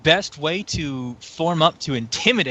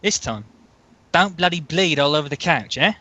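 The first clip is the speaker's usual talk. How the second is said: put-on Australian accent; 2 semitones higher than usual. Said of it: "discovered my inspiration".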